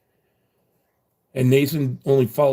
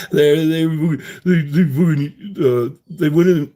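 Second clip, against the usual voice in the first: excited; 4 semitones higher, 6 dB louder than usual. Real, not acted. Excited retelling.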